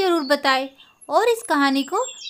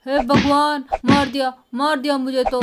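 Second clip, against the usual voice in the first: pained wail. Acted. Bull attacking Lala ji.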